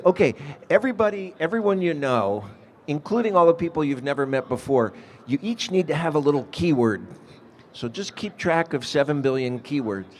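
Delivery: lightly acted, absurd instruction-giving; mock instructions. Mocking an impossible keyword rule.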